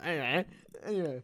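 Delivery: anyway repeated in a mocking tone.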